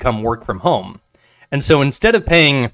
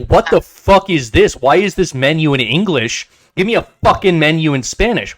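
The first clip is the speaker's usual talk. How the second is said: angry complaint; 4 semitones higher than usual. Retold or imitated. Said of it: "And he was like".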